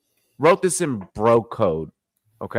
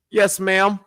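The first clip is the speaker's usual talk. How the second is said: higher-pitched, exaggeratedly proper phone voice; proper customer-service voice; 5 semitones higher than usual. Answering a customer who asked his race, proper voice. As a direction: code switch into a very proper voice. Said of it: "the most, like, proper voice I can".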